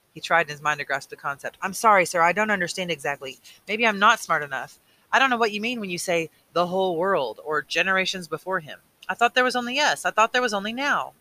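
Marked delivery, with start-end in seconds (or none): 1.6-11.1 put-on raised boyish voice, anxious and confused; a boy admitting he can't follow; young Jonas, apologetic. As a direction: Jonas to the Receiver, earnest and uneasy.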